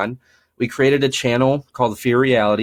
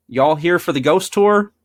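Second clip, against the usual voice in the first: imitating a Southern greeter, higher pitch; Southern accent; 7 semitones higher, 3 dB louder than usual. Guy greeting kids at the asylum, Southern accent. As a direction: put on a light Southern accent. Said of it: "he's in a Southern accent says".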